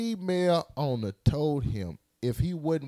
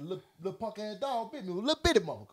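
retold complaint; 5 semitones higher, 4 dB quieter, much faster than usual. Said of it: "I called you and I said".

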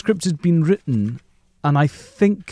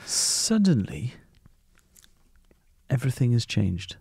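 mock-dramatic; 2 semitones lower, 4 dB quieter than usual. Writer reacting to being caught out, mock-dramatic.

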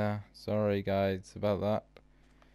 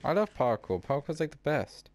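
sarcastic; 3 semitones higher than usual. Pretend. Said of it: "You sound sarcastic".

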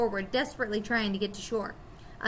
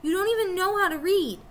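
higher, louder angry snap; snapping; 8 semitones higher, 4 dB louder than usual. A narrator's reading. Jack snaps at Kama and Boca, higher and louder. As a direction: bite back at the laughing kids. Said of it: "Jack snapped".

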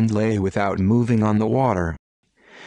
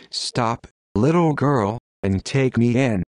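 squeaky tone. Acted. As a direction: squeak it out, calling from the bank. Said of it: "in a squeaky tone".

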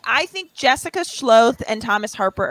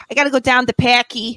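put-on aunt's old Boston accent. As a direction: imitate an aunt from Worcester, Boston-style. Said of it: "his aunt talks, she's always just like".

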